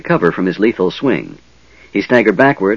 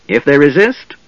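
raised, high and loud pompous order; grand effect; 6 semitones higher, 4 dB louder than usual. Acted. Hobgoblin leader ordering his guards, grandly. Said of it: "switching back to common for grand effect".

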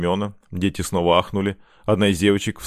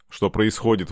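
ordinary delivery

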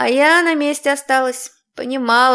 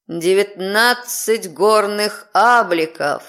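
demonic layered voice; slower than usual. Acted. Громыхнул демонический голос.

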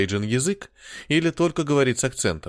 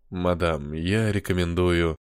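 put-on lower, slow refined British accent; 5 semitones lower, slower than usual. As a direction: speak it like a genteel Englishman, British accent. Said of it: "благородным британским акцентом".

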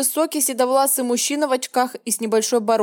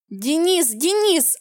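high desperate call for Denis; shrieking a name; 5 semitones higher, much slower than usual. Acted. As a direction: call him out in panic, pitch up. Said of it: "завизжала я". (отчаянно визжит имя)

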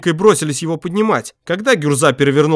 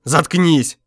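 curt snap; 4 semitones higher than usual. Acted. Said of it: "оборвал его Гюрза".

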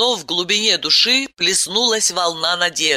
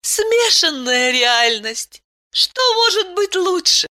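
Aylen's voice; 13 semitones higher than usual. A narrator's reading. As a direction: voice her gently, well above your own.

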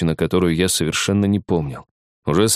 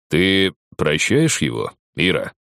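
booming velvety voice; slower than usual. Acted. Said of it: "громовой и бархатный голос сверху".

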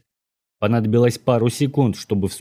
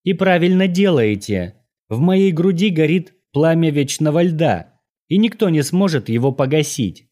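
гордая девушка, голос заметно выше; заяви это высоко и горделиво, как вызов; надменный тон; 7 semitones higher than usual. A narrator's reading. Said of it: "произнесла она надменным тоном". (надменно, свысока)

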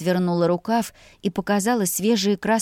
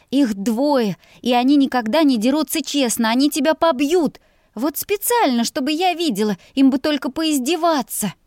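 alarmed; 7 semitones higher, 3 dB louder than usual. A narrator's reading. Girl frightened, pleading with groom.

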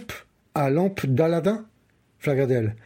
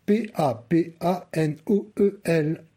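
spelled. Acted. Spelling the answer.

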